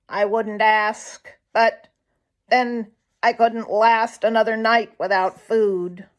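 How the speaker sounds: a hungry jay begging a place; meek polite jay. Acted. Sammy Jay pleads.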